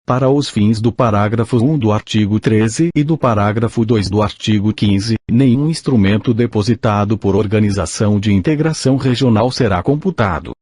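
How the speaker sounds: robotic text-to-speech reading; synthetic machine voice reading aloud. Real, not acted. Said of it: "com a utilização de voz sintetizada".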